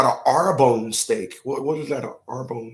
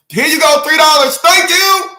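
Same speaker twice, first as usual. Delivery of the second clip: much higher and louder, breezy and cheerful; chirpy driver paying; 11 semitones higher, 8 dB louder than usual. Retold or imitated. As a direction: toss it off like it's easy and sunny.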